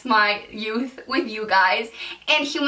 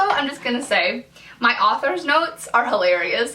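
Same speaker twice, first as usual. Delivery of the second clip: plain reading voice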